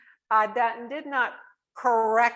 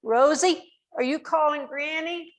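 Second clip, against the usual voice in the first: lightly voiced small old mother calling, higher; a small plaintive voice from the bedroom; elderly mother calls from bed in a little, higher voice; 7 semitones higher than usual. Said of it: "this little voice".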